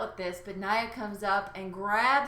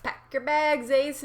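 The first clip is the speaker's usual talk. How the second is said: lightly higher host voice; imitating T J; 5 semitones higher than usual. Imitating the host sending her packing, lightly voiced. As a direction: send her home like the show host. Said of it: "T J's gonna show up ... be like".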